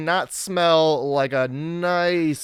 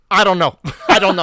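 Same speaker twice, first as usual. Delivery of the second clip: put-on French accent; 3 semitones higher, 8 dB louder, faster than usual. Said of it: "in a French accent".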